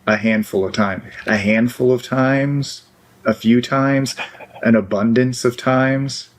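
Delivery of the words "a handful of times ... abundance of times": slow, deliberate list, each amount spelled out; patient, pointed demonstration of words to use; listing in-between amounts. Shown as a demonstration. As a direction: lay out "A handful of times, a few times, an abundance of times" slowly, one phrase at a time. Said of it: "See how I'm not saying all the time".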